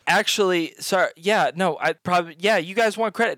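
stammered, halting denial; flustered deflecting. Acted. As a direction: stumble over yourself refusing the credit. Flustered girl deflecting credit.

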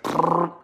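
rolled "prrr" noise; imitated trill. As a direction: trill a quick sound effect. Imitated noise for eyes going wild.

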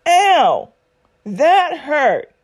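high, loud pained cry; just got slapped. Pretend. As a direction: yelp like you've just been hit. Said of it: "first you're gonna acknowledge the hurt".

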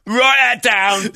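high, slow hammed-up rocker wail; a rock singer. An orderly imitating a rock singer stumbling on song lyrics at work, high drawn-out wail. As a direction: draw the words out high, half-singing. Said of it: "an orderly doing a rock singer".

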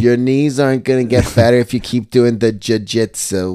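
nasal TV-nanny style mother; nasal mom. Acted. Mom nagging son about jiu-jitsu, nasal. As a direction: nag through the nose. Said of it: "very nasal".

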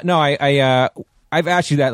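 normal talking voice

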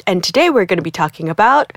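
formal news anchor read; newscaster voice. Real, not acted. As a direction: announce it like a newscaster. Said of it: "wow, I sound so like a newscaster".

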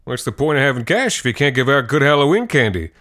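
put-on booming good-natured old guy; jovial boast. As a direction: joke grandly about the candy. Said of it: "he always said".

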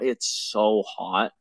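slow, drawn-out it's so hot, leaning on so; stressing so hot. Retold or imitated. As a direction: stretch out so hot to show how hot it was. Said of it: "when I say it's hot".

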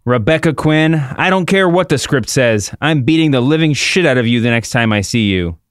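hammed-up threat, slightly theatrical; Ronda Rousey. Host as Ronda threatening Becky off script, mildly hammed-up threat. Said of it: "I'll do Ronda Rousey".

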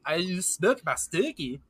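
random Swedish guy accent, badly faked; fake Swedish accent. Speaker mocking their own failed accent, fake Swedish accent. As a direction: do a garbled mock-Swedish voice. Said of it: "like, Swedish guy".

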